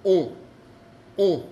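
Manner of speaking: on said as a nasal vowel with no n; a clean French nasal on; nasal on sound. Shown as a demonstration. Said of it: "tienen exactamente el mismo sonido".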